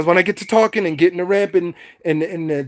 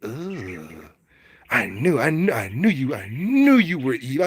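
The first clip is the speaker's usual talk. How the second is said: smug onlooker; 3 semitones lower than usual. Pretend. Watching the witch melt.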